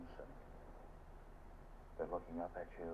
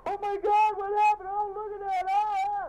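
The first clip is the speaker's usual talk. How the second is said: much higher, louder mock panic cries; shrill onlookers shouting at the wreck; imitating bystanders yelling in alarm; crowd yelling; 13 dB louder than usual. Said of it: "they're all yelling at me".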